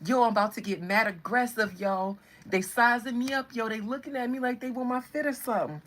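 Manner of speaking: lightly voiced, hot-headed New Yorker; aggressive New Yorker. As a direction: bristle like a mock New Yorker. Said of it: "New York always so aggressive".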